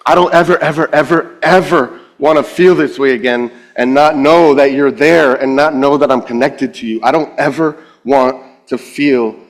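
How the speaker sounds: retold crying prayer. Believer reaching out to the Lord, retold crying prayer. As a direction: beg earnestly, re-enacting tears. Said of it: "I'm crying, and I'm saying".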